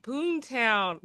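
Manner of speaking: "Boontown" said as BOON-town; mistaken pronunciation. Retold or imitated. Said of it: "that's pronounced Booton".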